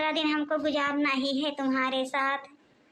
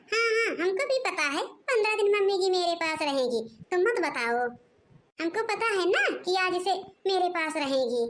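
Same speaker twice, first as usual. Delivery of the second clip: irritated reply; 3 semitones higher than usual. Acted. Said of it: "इतना गुस्सा के क्या बातें कर रही हो".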